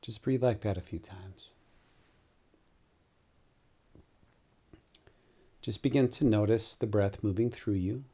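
calm meditation guide, long pauses between phrases; guided meditation. Real, not acted. Yoga teacher guiding listeners into Nidra with eyes closed, calm meditation voice. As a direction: lead them gently into the breath, unhurried.

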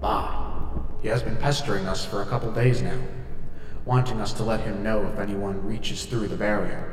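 lightly voiced old Scottish ghost; a hint of a sly Scottish spirit; ghostly Scottish spirit. Ghost Danny speaks.

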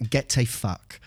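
a touch of Scottish brogue; Scottish accent. Acted. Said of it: "to quote, uh, a, a great Scottish man".

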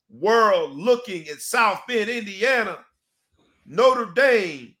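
high, slow and grand; hyped build-up. Acted. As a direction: paint the big stage, sell it. Builds hype for South Bend game.

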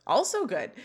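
lightly voiced, pleased little verdict; self-satisfied Sean. Sean approves his hair in the mirror, lightly self-satisfied. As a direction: admire yourself, lilting up then down. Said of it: "Sean looks back in the mirror and says".

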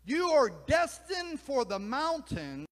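exasperated, then sink into a hushed send-off; exasperated owl. Acted. Owl urges the eagle to look up, exasperated and loud. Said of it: "The owl clucked in exasperation".

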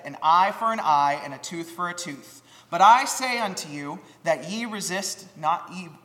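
measured King James reading from the pulpit; formal Bible reading at a sermon; scripture reading. Acted. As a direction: read the verses with steady solemn weight. Reads the scripture passage.

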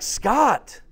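high, loud sharp call of his name; a mock-stern wife calling him out; wife scolding her laughing husband; imitating the wife. Wife scolding in retold story.

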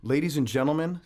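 booming ring announcer build-up; grand entrance announcement. Pretend. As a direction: announce him like a prizefighter. Boxing ring style guest introduction.

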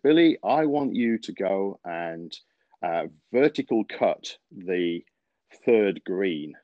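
southern drawl. Retold or imitated. Old superintendent giving Billy orders, in a slow southern drawl. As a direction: drag the words out like an old-school Southern greenskeeper. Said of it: "it has to be said really in a southern drawl".

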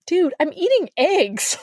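high, slow unimpressed line; deadpan annoyance. Retold or imitated. Narrator at breakfast shutting down a winking guy. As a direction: lay it flat and fed up.

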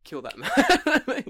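hammed-up angry prime minister decree; mock furious order. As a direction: PM ordering the heckler killed, hammed-up rage. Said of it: "He's like".

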